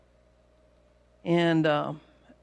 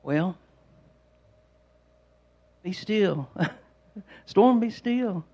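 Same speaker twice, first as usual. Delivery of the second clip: very calm; slower than usual. Acted. Jesus speaking to the storm, very calm. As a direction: settle it calmly, without raising your voice. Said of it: "very calmly just said".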